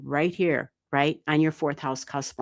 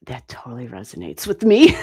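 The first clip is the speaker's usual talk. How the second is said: louder, laughing through it; amused retold reaction; laughing quote; 5 semitones lower, 6 dB louder than usual. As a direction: say it while cracking up. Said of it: "And I was like".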